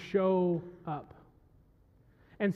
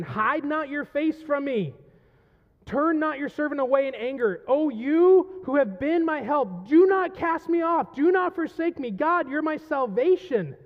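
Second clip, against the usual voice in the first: high, loud, impassioned plea; building to a raised, urgent appeal; anguished; 5 semitones higher, 4 dB louder than usual. Acted. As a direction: recite the psalm as a desperate cry. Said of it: "There's anguish".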